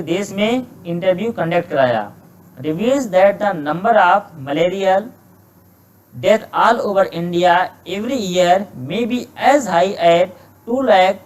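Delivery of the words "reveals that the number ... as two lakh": slow, careful reading of an exam sentence; slow dictation reading. Shown as a demonstration. Teacher slowly reading a test sentence to students, measured dictation pace. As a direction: read each word out slowly for the class. Teacher reads passage aloud.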